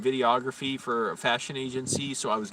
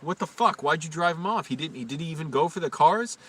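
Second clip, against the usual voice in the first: mildly heated, higher-pitched questioning; angry yell retold; 4 semitones higher than usual. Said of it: "I yelled at him".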